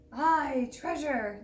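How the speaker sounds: loud pirate crew cheer; crew shout. Acted. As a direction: shout it together. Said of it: "the others shouted".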